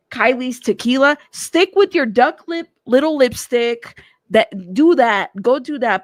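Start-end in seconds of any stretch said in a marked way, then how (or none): 1.3-6.0 mock scolding. Real, not acted. Telling Kylie to stick to lipstick.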